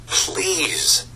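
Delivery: high, falling plea to a king; pleading. Acted. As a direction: draw out a beseeching, high-pitched appeal. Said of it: "to plead with the king".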